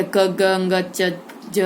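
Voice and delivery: क, ग, च, ज short with little air; half-said consonants. Shown as a demonstration. Teacher lists alpapran letters, क to ज said short, unaspirated. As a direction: clip क, ग, च, ज before the full vowel. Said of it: "पूरा पूरा नहीं बोल सकते".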